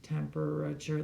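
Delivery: "temperature" in four measured beats; syllable by syllable. Shown as a demonstration. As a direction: sound out each syllable of "temperature". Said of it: "that's four syllables".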